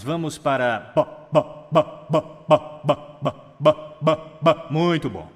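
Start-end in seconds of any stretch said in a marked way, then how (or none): 0.9-4.7 series of popped "ba" syllables; lip warm-up. Shown as a demonstration. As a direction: burst each "ba" off the lips, evenly spaced. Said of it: "aquecer os nossos lábios".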